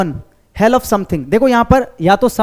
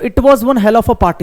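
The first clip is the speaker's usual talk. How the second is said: slow, louder "It was one hell of a party" with stress on "was"; emphatic stress; 3 dB louder, much slower than usual. Shown as a demonstration. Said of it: "यहाँ पर मैंने जोर दे के बोला है". ("was" पर ज़ोर देकर धीमे से बोलो)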